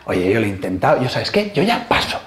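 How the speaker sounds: imitated giving up, low and offhand at first; resigned shrug in the voice; indifference. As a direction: wash your hands of it. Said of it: "pasan a la indiferencia".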